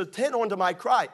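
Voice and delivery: preacher's emphatic, high CRY; emphasis on CRY. Shown as a demonstration. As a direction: CRY pitched high and stressed. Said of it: "emphasis there".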